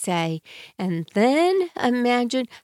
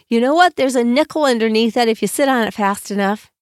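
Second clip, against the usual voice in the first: playful teasing voice, louder; joking; 2 semitones higher, 5 dB louder than usual. Shown as a demonstration. Parent joking a kiddo into the chair, playful. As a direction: joke a kid into sitting. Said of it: "And I'm gonna joke with them".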